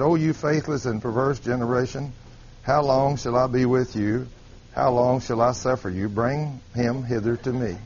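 low, subdued, unbothered scripture reading; mild church reading. Shown as a demonstration. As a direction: read the rebuke with no bite at all. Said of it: "here's the way we read that".

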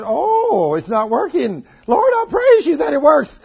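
hammed-up desperate prayer; mock panic. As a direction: play someone frantically praising the Lord in alarm. Acts man whose hand won't work.

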